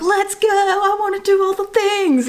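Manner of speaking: high, drawn-out excited cry; eager Gemini sun. Acted. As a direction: play an overeager sign raring to go. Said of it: "This Gemini sun is like".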